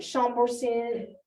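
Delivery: Chambourcin said slowly the French way, shom-boor-SAN; French pronunciation. Shown as a demonstration. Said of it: "trying to say it with a little French accent".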